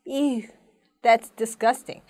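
drawn-out demo eww of revulsion; disgusted. Shown as a demonstration. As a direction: react as if passing a pile of trash. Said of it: "쓰레기 더미를 봤어요". (쓰레기를 보고 역겨워하며)

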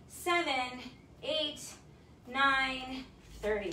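energetic fitness coach counting down; workout count. Acted. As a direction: drive the class through each rep. Coach counting reps aloud.

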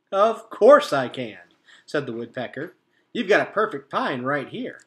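lightly voiced, eager bird voice; cheerful woodpecker. A narrator's reading. Trunk Tap eagerly agreeing to help, lightly voiced. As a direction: chirp back happily.

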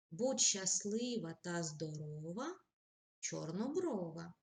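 slow, heartfelt poetry reading; poem recitation. Acted. Reads poem example.

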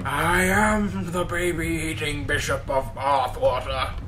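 slow, drawn-out pompous bishop voice; Blackadder Bishop. Acted. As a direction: intone it like a grand comic bishop. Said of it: "the fucking bit from Blackadder".

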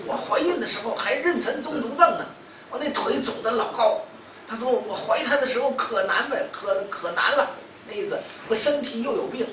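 imitating a mother's tale of woe; aggrieved complaining. Mother recounts hard pregnancy, retold.

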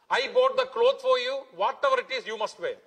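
a hint of a husband laying down the law; bossy husband. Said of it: "The husband says to the wife".

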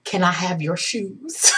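slow, soft, careful ask; hushed, hesitant plea; timid request. Retold or imitated. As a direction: ease the bold question out gently. Retold nervous big ask after pause.

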